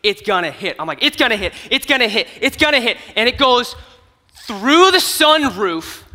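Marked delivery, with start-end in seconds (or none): 1.0-2.9 building excitement. Retold or imitated. Watching the balloon fly toward the car, building excitement. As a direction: chant it rising as it flies. Willing the balloon onto target.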